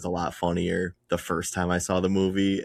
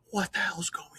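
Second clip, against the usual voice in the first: hushed imitation of a furious yell, higher-pitched; whisper yelling; 11 semitones higher, 7 dB quieter, faster than usual. Captain breaking up a quiet funeral fight, whisper yelling. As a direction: yell it under your breath, high and soft. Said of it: "Like, just whisper yelling".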